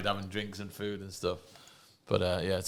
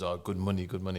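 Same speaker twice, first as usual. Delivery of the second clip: put-on, imitated Russian accent. Retelling a man's offer of a combat sambo fight, in a Russian accent. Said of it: "That's a good Russian accent".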